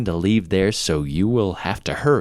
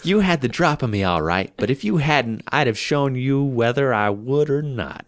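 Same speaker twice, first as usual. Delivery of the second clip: put-on a defiant outlaw in an amateur Southern accent; 6 semitones higher than usual. Outlaw Thomas defies the arresting officer, in a Southern accent. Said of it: "That was a Southern accent".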